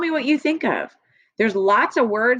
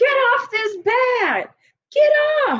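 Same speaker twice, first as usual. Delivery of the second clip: put-on very high, shrill child-like yelling. Acting out a kid on his bed yelling at a bug: yelling. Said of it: "yelling at the bug".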